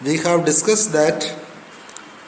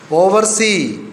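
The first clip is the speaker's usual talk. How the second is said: "oversee" with emphasis on "see"; stress on SEE. Shown as a demonstration. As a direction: lean on the final part, "see", in "oversee". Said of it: "Stress mark will be on the second part".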